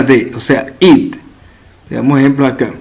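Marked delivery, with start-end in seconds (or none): 0.8-1.2 IT as a short I plus stop. Shown as a demonstration. Teacher models the second rule, IT for ED. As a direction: say IT as the ED ending sound. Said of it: "se pronuncia como una I y una".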